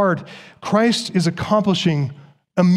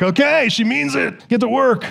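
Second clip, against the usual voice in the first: put-on higher-pitched, urgent kid reaction; alarmed kids; 6 semitones higher than usual. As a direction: scramble to obey like kids who know mom is serious. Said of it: "kids are like".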